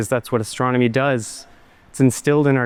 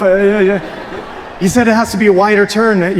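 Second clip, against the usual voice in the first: laughing through the words, higher; 6 semitones higher than usual. Real, not acted. Telling the audience about the pilot's wider turn, laughing. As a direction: chuckle out the story.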